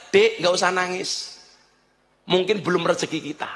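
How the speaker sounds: retold soothing. Husband consoles crying wife over lost motorbike, soothing. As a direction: drop down and calm her, unhurried. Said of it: "dia menenangkan".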